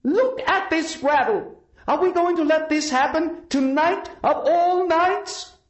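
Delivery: high, loud, slow rallying cry over loudspeakers; commanding loudspeaker address to marchers; booming rally speech. A narrator's reading. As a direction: rouse the crowd from the podium. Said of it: "booming, omnipresent sound of her voice echoing from a dozen loudspeakers".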